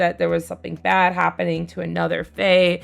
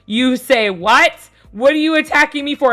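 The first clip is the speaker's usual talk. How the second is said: shocked outburst; 6 semitones higher, 6 dB louder than usual. Retold or imitated. Friend shocked at being attacked.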